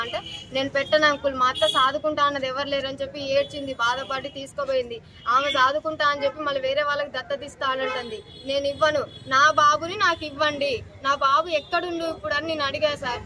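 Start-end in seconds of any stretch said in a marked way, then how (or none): 0.5-2.9 louder, firm refusal quoted; a woman retells refusing to sign, raising her voice; retold refusal. Quoting her own refusal. 8.5-12.3 పిల్లాడి కోసం గట్టిగా వేడుకోలు; distressed plea. Real, not acted. Pleading for her son.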